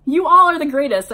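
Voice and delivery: high, loud happy cry; cried out. Acted. Heroine cries out to her band before a group hug, loud. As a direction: burst out with joy. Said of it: "I cried".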